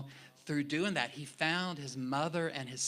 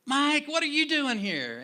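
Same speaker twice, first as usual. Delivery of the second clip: much higher, loud overjoyed cry; delighted shout; 13 semitones higher, 9 dB louder than usual. Retold or imitated. Pastor spotting his old friend out of context, overjoyed shout. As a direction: shout it like a shocked reunion. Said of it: "he's like".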